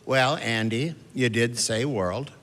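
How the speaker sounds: slow, deadpan dig; slow, dry mock correction; mom's dry tease. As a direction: slowly point out the catch. Mom teasing dad.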